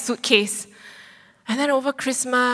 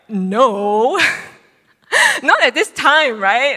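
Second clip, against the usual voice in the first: laughing no; 2 semitones higher, 7 dB louder, much slower than usual. Retold or imitated. Refusing professor's offer, laughing.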